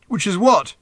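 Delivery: high, loud shouted question; shouted back. A narrator's reading. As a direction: yell the question back over noise. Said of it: "shouted Arthur back".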